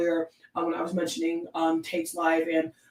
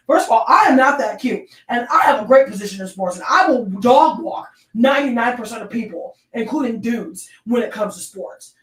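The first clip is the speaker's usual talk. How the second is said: fired-up boasting; 2 semitones higher, 5 dB louder than usual. Real, not acted. Defending herself, fired up.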